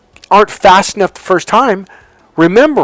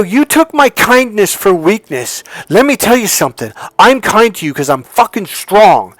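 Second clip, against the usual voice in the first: re-enacted stern confrontation, raised pitch; forceful telling-off; 5 semitones higher, 3 dB louder than usual. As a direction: put someone firmly in their place, as retold. Retold telling-off of the clerk.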